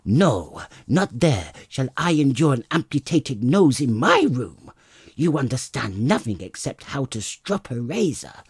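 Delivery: loud, high furious tirade; furious wife. Acted. Wife driving her husband out with the nose, loud and furious. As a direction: hurl the insults at him.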